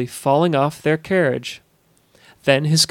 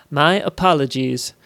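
polite. A narrator's reading. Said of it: "said Netcher politely".

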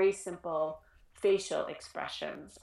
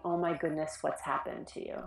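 gentle concern; 3 semitones lower than usual. Shown as a demonstration. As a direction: ask it tenderly. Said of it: "sense the difference".

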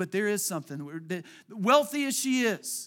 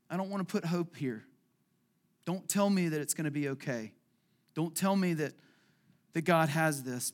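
weepy; 4 semitones lower than usual. Retold or imitated. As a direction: let the hope hurt as the voice sinks. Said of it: "feeling, like, weepy and going".

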